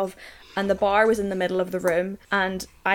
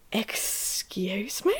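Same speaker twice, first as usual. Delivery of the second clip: indignant; 8 dB quieter, much slower than usual. Retold or imitated. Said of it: "And I was like".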